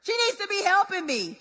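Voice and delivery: Martha's mock-indignant complaint to Jesus; indignant demand. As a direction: act out a bossy, put-upon demand. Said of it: "the way Martha said it".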